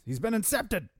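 high-pitched playful announcement; hammed-up revelation; mock dramatic reveal.

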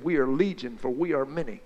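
low, dark demon speaking through a man. Acted. Demon answering Jesus from the possessed man, low and dark. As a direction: let the demon rumble low and soft. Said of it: "the demon spoke out of that man".

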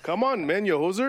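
put-on Canadian accent. A host razzing a player in a Canadian accent. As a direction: ham up a Canadian jab. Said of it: "that wasn't the Canadian talk".

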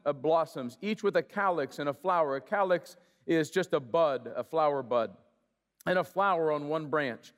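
measured scripture read, each item set apart. Acted. Pastor reading Exodus aloud to the congregation, steady and measured. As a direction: read it like the word of the Lord.

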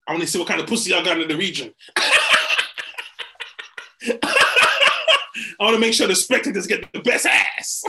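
talking through laughter; laughing. Real, not acted. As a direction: laugh while joking. Joking while laughing.

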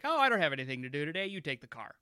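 quick, airy, then whispered; carefree, trailing to a whisper; breezy quote. Retold or imitated. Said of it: "moment of like".

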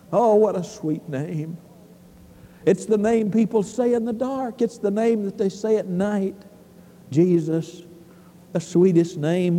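low, hushed-down preaching; tender reverence. Real, not acted. Preacher telling the church of the sweet name, tender reverence.

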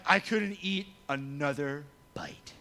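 slow, overfull groan; drawn-out put-on fullness; mock stuffed. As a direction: act too stuffed to move. Acts out overstuffed Thanksgiving eater.

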